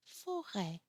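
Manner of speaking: forêt ending on a very open "ê"; mouth opened wider. Shown as a demonstration. French teacher comparing E sounds, forêt with widest open ê. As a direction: open the last vowel of forêt wide, falling. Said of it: "open the mouth even more".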